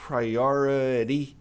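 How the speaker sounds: Priority very slowly with American R sounds; drawn-out Priority with rolled-back R's; slow demonstration. Shown as a demonstration. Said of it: "Aqui é difícil pra quem não tá acostumado". (pronúncia lenta de priority)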